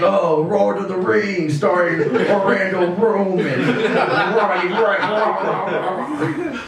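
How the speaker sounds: put-on high, drawn-out L-to-R parody accent; mock Japanese accent. Comic parodies a foreign retitling of our movies, mock Japanese accent. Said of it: "and were like".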